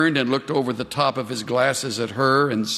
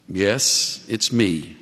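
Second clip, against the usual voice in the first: answered tenderly; 7 semitones lower, much slower than usual. Retold or imitated. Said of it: "she answered tenderly".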